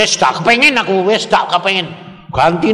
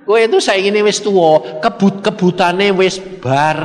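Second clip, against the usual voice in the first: laughing retelling; 3 semitones higher than usual. Retold or imitated. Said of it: "Tuhan bilang apa?".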